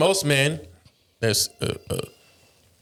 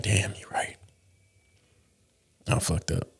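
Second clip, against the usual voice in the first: sheepish mutter; 6 semitones lower, 6 dB quieter than usual. Retold or imitated. Husband's quiet admission.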